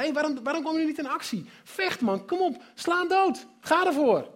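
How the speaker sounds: rally the scared soldiers, push them on; rousing call to fight. Acted. David urging soldiers to fight.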